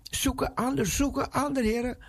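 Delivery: high, begging plea; pleading Moses. Retold or imitated. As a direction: beg to be let off the hook. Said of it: "Mozes zegt".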